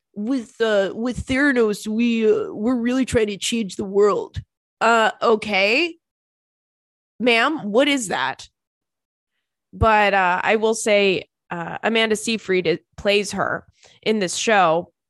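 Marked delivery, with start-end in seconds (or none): 0.2-4.5 put-on laid-back surfer-dude voice. Imitating the woman who changed her voice: Elizabeth Holmes as surfer dude. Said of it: "ended up sounding like, uh, s-, a surfer dude".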